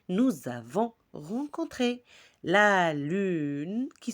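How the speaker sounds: diction lente et articulée, vers par vers; récite lentement, en détachant chaque vers; récitation de poème. Acted. (récitation poétique, lente et posée)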